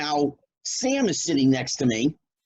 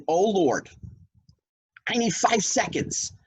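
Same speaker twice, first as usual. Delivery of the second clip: higher, wistful mock prayer, slowing at the end; awed inner plea; 4 semitones higher than usual. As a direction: beg for the moment to last. Retold inner prayer on stage.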